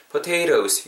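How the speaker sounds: "potatoes" with the second T softened to a tap; flapped T pronunciation. Shown as a demonstration. Teacher asking listeners to focus on "potatoes" with a flapped T. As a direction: model "potatoes" as "po-tay-rohs". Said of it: "이렇게 발음한다라는 걸".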